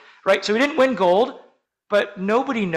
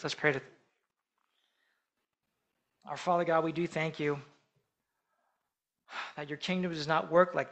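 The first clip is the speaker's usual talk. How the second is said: quiet closing prayer; 2 semitones lower, 4 dB quieter than usual. Acted. Pastor closing the sermon with prayer, soft and reverent. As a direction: pray gently over the congregation.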